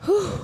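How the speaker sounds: winded whew. Real, not acted. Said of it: "Now I'm out of breath".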